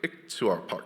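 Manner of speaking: iktuarpak said slowly, halting; unsure slow attempt at iktuarpak; hesitant try. Shown as a demonstration. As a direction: stumble slowly through iktuarpak. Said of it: "I'm getting that terribly wrong".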